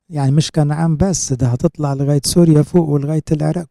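preaching at full force to the congregation; rising preaching fervor. Real, not acted. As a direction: build the promise out loud.

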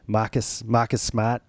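Boston accent, R's dropped. Shown as a demonstration. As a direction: try the name out in a Boston accent. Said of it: "That's a great, great Boston name".

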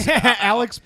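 slow words broken by laughter; laughing. Real, not acted. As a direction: laugh it out slowly. Laughing at the mishap.

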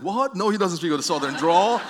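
what, no way; horrified denial. Retold or imitated. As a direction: recoil in disbelief at the news. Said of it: "I was kinda horrified".

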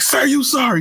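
high, commanding daycare worker; mock bossy daycare lady. Daycare woman ordering kid to apologise, mock bossy. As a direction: make the child apologise now. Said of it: "She's like".

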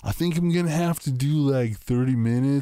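lightly voiced rambling stoner; a hint of a spaced-out stoner impression. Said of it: "I'm gonna do my stoner voice".

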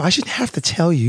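high mocking partner voice; mock upset partner. Man parodying what women tell men, high mock voice. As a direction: keep the high parody going.

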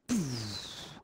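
breathy "pfff" sound effect; imitated tunnel whoosh. Describing driving into a tunnel, imitated whoosh. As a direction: whoosh like sound suddenly cut away. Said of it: "you hit the tunnel, and it's like".

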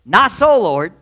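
loud, sudden objection; blurted protest. Retold or imitated. Peter blurting a refusal at the Lord, loud. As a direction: blurt it out at God. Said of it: "blurted out his mind".

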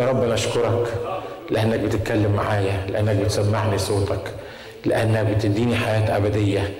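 low-pitched, measured model prayer; prayer of thanks. Shown as a demonstration. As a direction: lead them in thanks, pausing between phrases. (صلاة شكر بنبرة واطية وهادية)

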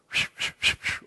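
repeated unvoiced whooshes of air; whooshing noise. Shown as a demonstration. Preacher showing the congregation what went right over their heads, whooshing. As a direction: mimic things flying past overhead.

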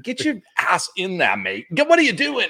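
loud, high, mock Texan accent; attempted Texan accent. Friend shooing him into the panel, exaggerated Texan accent. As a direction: order them about in a hammed-up Texan accent. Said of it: "Texan English accent or whatever".

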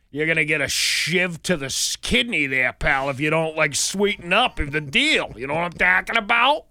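tough mock Boston movie voice; Boston accent. Imitating a movie gangster making a threat, Boston accent. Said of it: "it's all about Boston and everything like that".

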